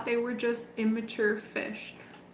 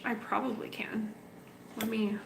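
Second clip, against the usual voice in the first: a soft whispered aside; breathless murmured reply; 11 dB quieter than usual. Real, not acted. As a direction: whisper it almost to yourself. Answering a viewer's request aside.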